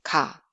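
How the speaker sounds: "Ka" low, with a soft unaspirated k; very soft plain k. Shown as a demonstration. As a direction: say "Ka" relaxed, between k and g. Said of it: "Very soft, plain sound".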